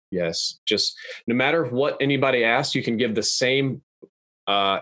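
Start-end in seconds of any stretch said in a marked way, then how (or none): 0.1-0.6 flat dead answer, no emotion; monotone. Shown as a demonstration. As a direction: say it with zero feeling. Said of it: "completely flatten and monotone my voice".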